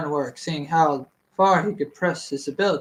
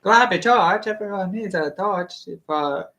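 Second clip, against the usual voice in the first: riot-gear hawker; 3 semitones higher than usual. Retold or imitated. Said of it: "a bunch of people selling the riot gear".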